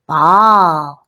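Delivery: one word, loud and drawn out; exaggerated parent-to-baby emphasis on the word; sing-songy parentese. Shown as a demonstration. Parent teaching a little one the word ball, sing-songy parentese. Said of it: "almost like a sing-songy, exaggerated speaking style".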